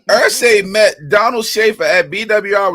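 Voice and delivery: telling it through laughter; laughing. Real, not acted. Laughing while telling his friend the Irsay story. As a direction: laugh as you tell it.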